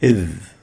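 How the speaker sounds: Iv said deep, with the tongue tip at the upper teeth; a heavy, throaty "Iv"; ظ مفخمة; emphatic Arabic ظ. Shown as a demonstration. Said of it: "produce iv".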